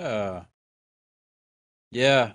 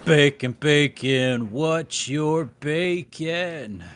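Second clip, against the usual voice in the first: drawn-out silly; much slower than usual. Pretend. Playing with the bacon sound.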